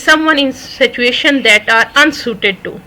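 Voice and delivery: very slow, deliberate reading; slow definition. Shown as a demonstration. Teacher reads a definition to the class very slowly. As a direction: read the meaning out slowly. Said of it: "A fish of، out of water".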